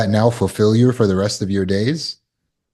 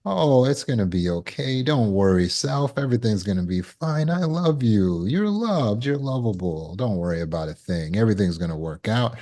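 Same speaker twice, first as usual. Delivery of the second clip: soft, gentle reassurance to oneself; calm yourself down tenderly; soothing self-talk; 5 dB quieter than usual. Acted. Inner voice soothing oneself, soft and gentle. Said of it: "inner dialogue is now trained to say".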